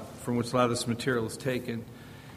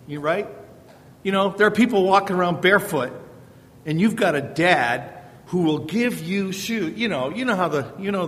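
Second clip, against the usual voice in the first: scolding dad; 4 semitones higher, 4 dB louder than usual. Retold or imitated. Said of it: "My typical response would be something like this".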